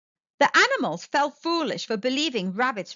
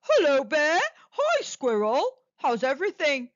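calling out; 4 semitones higher than usual. A narrator's reading. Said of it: "He called out".

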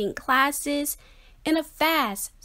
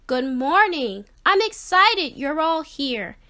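cheerful teacher greeting; 4 semitones higher, 4 dB louder than usual. Acted.

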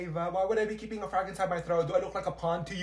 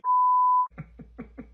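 high burst of laughter; 9 dB louder than usual. Real, not acted. Friend misspeaks a name.

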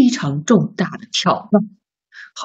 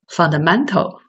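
"fundamental" run together more quickly, stress on "man"; a bit faster. Shown as a demonstration. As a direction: say "fundamental" faster in one smooth go. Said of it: "再快一点".

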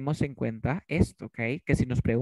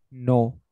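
"No" hit loud and set apart; emphatic no; 5 dB louder than usual. Shown as a demonstration. Teacher shows how to emphasise a denial, emphatic. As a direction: punch "No" as a firm denial. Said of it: "Imagínate que yo quiera enfatizar".

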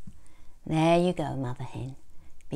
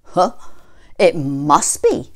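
wolf voice; 7 dB louder than usual. A narrator's reading. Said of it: "said the wolf".

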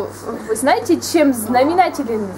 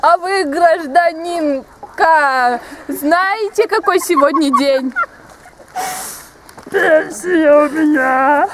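put-on old woman voice; slower than usual. Grandma character again.

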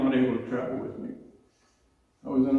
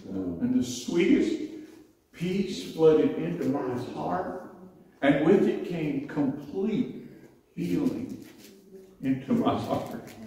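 tender wonder; 3 semitones higher, slower than usual. Real, not acted. Tender recollection of peace.

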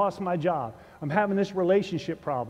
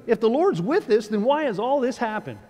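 raised, louder exasperated question; exasperated Gideon; 5 semitones higher, 5 dB louder than usual. Retold or imitated. Gideon questioning the angel, exasperated and loud. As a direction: demand an answer, fed up. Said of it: "listen to him".

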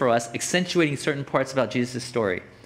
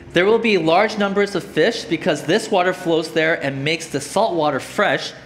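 emphatic, projected Bible reading; scripture reading; 4 dB louder than usual. Acted. Preacher reading Ezekiel's temple vision to the congregation, emphatic scripture reading. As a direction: read the verse out to the room.

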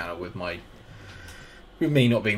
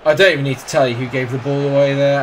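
fuming; 5 semitones higher, 9 dB louder, faster than usual. Real, not acted. Fuming at the striker's mistake.

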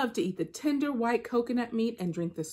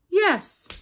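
eager Anansi; 11 semitones higher, 7 dB louder than usual. Acted.

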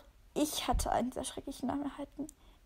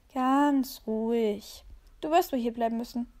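unruffled calm. Acted. The dog calmly tells the cat it must stay. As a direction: stretch it out, utterly unbothered. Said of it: "War seelenruhig".

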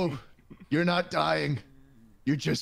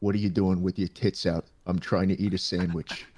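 put-on low gruff old man; 3 dB quieter than usual. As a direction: growl it like a cranky old man.

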